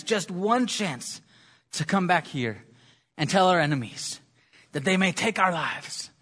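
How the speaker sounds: put-on slow, stirring speech in a light Scottish accent; rally the troops with a Scottish lilt; a hint of Scottish accent, rousing. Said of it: "He responds in his thick Scottish accent".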